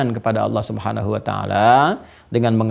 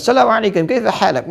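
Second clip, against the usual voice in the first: a hint of a cheerful Arab greeter; Arab greeting; 8 semitones higher than usual. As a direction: greet like a local in Mecca, with a hint of show. Greeting in Arabic at Mecca.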